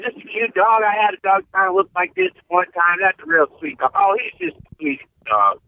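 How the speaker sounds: gushing stranger. Retold or imitated. Guest imitating the man in the next stall admiring his dog, lightly gushing.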